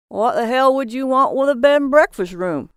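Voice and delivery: loud, high shocked outburst; loud shocked disbelief. Acted. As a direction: blurt it out, scandalised. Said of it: "in a shocked voice".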